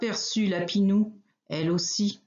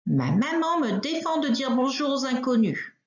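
little rabbit; 5 semitones higher than usual. Acted. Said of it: "répond Lapinou".

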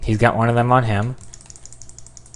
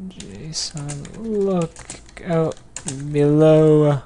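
high, word-by-word with pauses; slow dictation; 6 semitones higher, much slower than usual. Real, not acted. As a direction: sound each word out as you type. Slowly sounding out typed warning.

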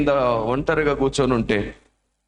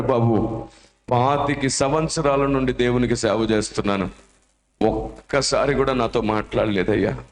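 tearful; 4 semitones lower than usual. Acted. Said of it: "బోర్మని ఏడుస్తూ".

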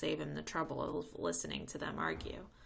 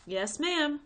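put-on polite boy; 10 semitones higher, 7 dB louder than usual. Jerome answers politely.

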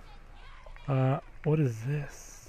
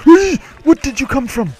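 gleeful whee; 13 semitones higher, 14 dB louder than usual. Real, not acted. Gleeful cry during play.

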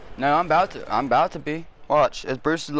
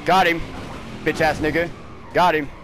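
triumphant shout; 2 semitones higher than usual. Real, not acted. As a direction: bark it out as you land the hit. Scoring a hit in race.

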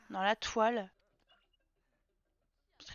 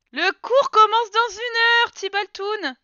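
sing-song announcement; 8 semitones higher, 5 dB louder, slower than usual. Pretend. Announcing class to her sim.

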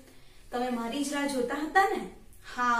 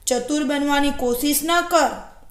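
mildly angry storybook wolf; a firm warning, anger kept understated; a touch of wolfish temper; 3 semitones higher, 4 dB louder than usual. Acted. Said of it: "વરુ ગુસ્સાથી બોલી ઉઠ્યું".

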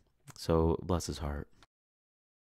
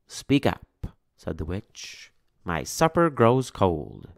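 impatient witch; 3 dB louder, slower than usual. Acted.

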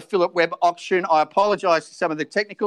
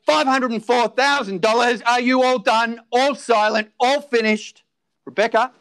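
auctioneer calling. Acted.

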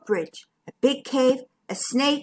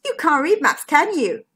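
groaning; 4 semitones higher than usual. Acted. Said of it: "groaned Bertie".

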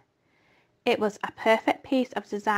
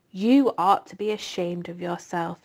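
disgust; 4 semitones lower than usual. Acted. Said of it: "said Charlotte in disgust".

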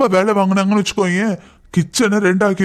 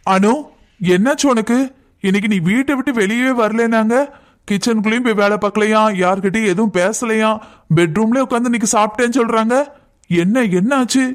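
higher, pressing questions; confronting husband; 4 semitones higher than usual. Acted. Husband confronts his wife over skipping chores, pressing and exasperated. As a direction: demand answers, exasperated.

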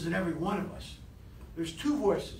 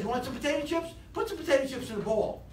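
higher, upbeat sensible voice; sensible inner voice; 5 semitones higher than usual. Acted. Speaker voicing the good inner voice about chips, upbeat. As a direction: gently suggest a small bowl. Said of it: "This one says".

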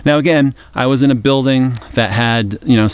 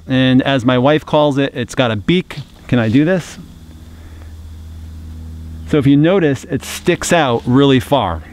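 muffled behind cloth mask; speaking with mouth covered; through a face mask. Real, not acted. Seen 0: Beak-shaped cloth mask covers mouth and nose throughout labelled words.

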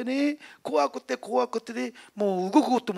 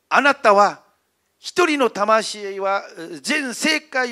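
a loud, rebuking voice from above, slow at the end; voice of the Holy Spirit; 6 dB louder than usual. Retold or imitated. The Spirit rebuking the elder, a loud stern call. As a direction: thunder the rebuke down, louder. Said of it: "どういう声が聞こえたかというとね".

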